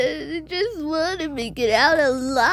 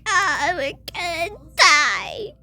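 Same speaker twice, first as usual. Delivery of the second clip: mock-panicked, higher whiny voice; high-pitched voice; 6 semitones higher than usual. Sister teasing the family, high-pitched mock panic. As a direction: play the scared little girl, pitched up. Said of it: "stop with that high-pitched voice".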